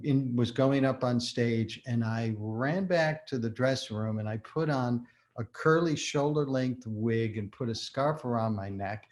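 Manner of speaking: ordinary delivery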